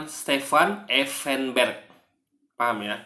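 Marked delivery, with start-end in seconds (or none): 0.0-1.8 Effenberg as stefan efenberk; Indonesian way. Shown as a demonstration. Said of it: "orang Indonesia akan melafalkan dengan".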